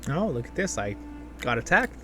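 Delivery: usual speaking voice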